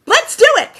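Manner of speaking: sudden loud burst of eagerness; high, loud mock cheer; excited. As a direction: shout it like a eureka moment.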